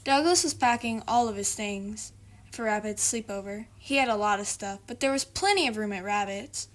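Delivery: lively storybook narration; reading to children. A narrator's reading. Reader to young viewers, lively storytelling. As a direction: read it as a bedtime story.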